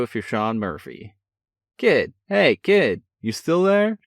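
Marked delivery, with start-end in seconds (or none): 1.8-4.0 loud, high booming call. A narrator's reading. Brother calling to his distracted sibling, booming. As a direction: call loudly down the phone line. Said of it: "Sean's voice boomed".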